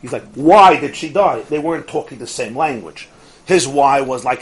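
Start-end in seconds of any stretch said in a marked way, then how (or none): 0.3-1.4 stretched, louder anguished question, retold; mock-distraught plea, slow and insistent; freaked out. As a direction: demand a reason, drawing out WHY. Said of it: "the guy is freaked out".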